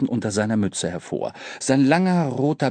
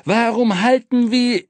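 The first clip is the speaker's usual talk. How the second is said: high, raised-voice outrage; irate conductor, pitched high; angry demand; 10 semitones higher, 4 dB louder than usual. A narrator's reading. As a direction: demand an explanation, indignant. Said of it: "Der Schaffner kam erbost".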